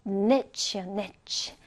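"niche" isolated as the last syllable of spinach, like "netch"; syllable demonstration. Shown as a demonstration. Teacher pointing out the end of spinach, isolated syllable "niche". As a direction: pick out the ending "niche" as a short "netch". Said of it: "자, 지금 잘 보면".

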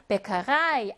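Bäckerei with the stress on the final REI; final-syllable stress. Shown as a demonstration. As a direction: model Bäckerei, leaning on the ending. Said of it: "자기 자신이 강세를 가져요".

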